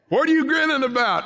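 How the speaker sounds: high, fast teasing question; mock-curious asking; playful question. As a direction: tease them into joy. Acted question.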